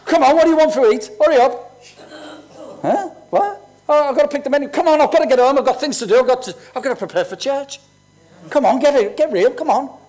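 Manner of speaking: hammed-up rushing at dinner; impatient husband. Husband hurries his wife Pam over dinner, mock impatient. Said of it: "I say to Pam".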